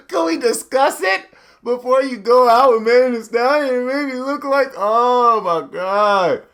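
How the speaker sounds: high, loud, whiny white-guy complaint. Pretend. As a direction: wail it like an aggrieved white husband. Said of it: "my white voice".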